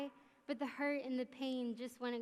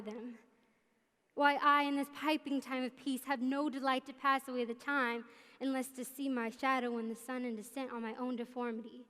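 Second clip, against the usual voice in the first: Richard the Third. Acted. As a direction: deliver it like a brooding stage villain. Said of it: "I will perform a monologue from Richard the Third".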